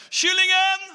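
high, loud sing-song jab; old man blackmailing with one word; taunting call. Acted. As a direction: fling the single word at him.

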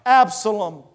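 high, loud, slow lament; preacher's acted wail of grief, drawn out; grieving king. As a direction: cry out for a lost son, declaimed. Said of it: "was deeply moved and went up to the chamber over the gate and wept".

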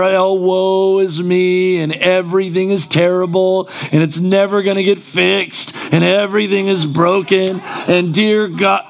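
half-hearted imitation of a complaining believer; mock whining lament. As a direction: drag out the self-pity a little. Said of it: "we can act like we don't talk like this".

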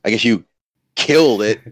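mock-reluctant congratulations; begrudging. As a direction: congratulate through clenched teeth. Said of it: "I begrudgingly".

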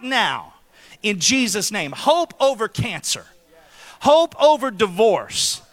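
solemn, rising declaration of hope; prophetic declaration. Acted. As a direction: speak it over them like a blessing. Speaking hope over people.

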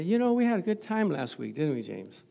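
mild, easy friendly opening; gentle approach. Retold or imitated. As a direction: ease into it like an old friend. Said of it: "come gently and say".

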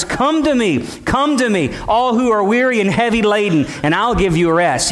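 shepherd crying out. Acted. Shepherd calling his weary sheep, high ringing call. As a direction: lift the voice and call the flock home. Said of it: "he would cry out multiple times".

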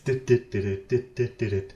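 playful beeping noises; mock error beeps. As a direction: imitate a technical-difficulties tone. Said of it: "Technical difficulties". (gespielte Störungspiepser)

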